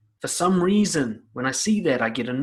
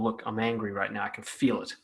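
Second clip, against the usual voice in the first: soft, lower, composed statement of anger; calm; 5 semitones lower, 6 dB quieter than usual. Pretend. Speaker models telling someone they are angry, calmly. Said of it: "saying as calmly as possible".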